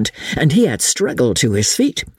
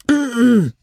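acted throat clearing; 10 semitones higher than usual. A narrator's reading. Sneezy chief interrupts his account.

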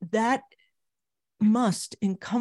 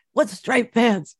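imitating Miles; 3 semitones higher, 6 dB louder, slower than usual. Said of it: "they both talk like this".

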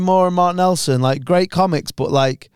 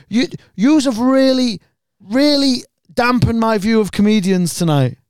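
mock tearful; 6 semitones higher than usual. Fan complaining to comedians, mock tearful and hurt. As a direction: plead it like he's nearly in tears. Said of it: "nearly crying".

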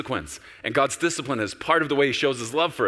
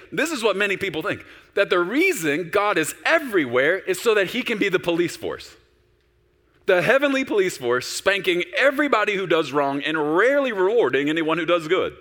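loud, high preaching voice; fired-up preacher; 6 semitones higher, 5 dB louder than usual. Acted. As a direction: preach it hard to the room. Preaching at full force.

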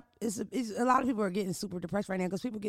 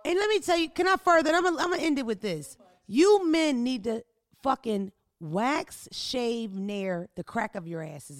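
rant; 3 semitones higher, 4 dB louder than usual. Real, not acted. Launching a rant at men.

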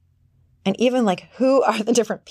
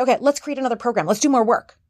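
eager workaholic; 2 semitones higher, faster than usual. Retold or imitated. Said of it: "she would go say".

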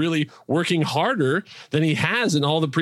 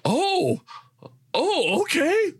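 surprised; 11 semitones higher than usual. Retold or imitated. Startled viewer at crime scene.

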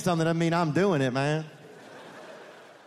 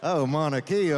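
sexy Spanish. Shown as a demonstration. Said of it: "It sounds sexier when it's Spanish".

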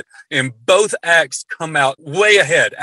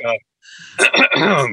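deliberate little cough for attention; fake throat clear. Shown as a demonstration. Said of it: "I just do one of these things like".

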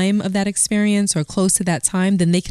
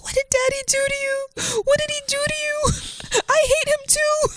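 put-on crying child. Son asking his mother about Daddy, high childlike. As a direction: play the upset eight-year-old. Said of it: "He was like".

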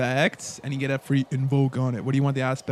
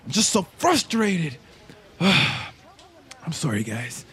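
sheepish little tail guy; much slower than usual. Acted. NPC apologizes, introduces himself.

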